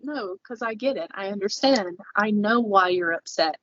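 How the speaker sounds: retold patient, even reassurance; so calm. Calm husband reassuring his upset wife, evenly. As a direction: imitate an unruffled, understanding partner. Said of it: "was so calm".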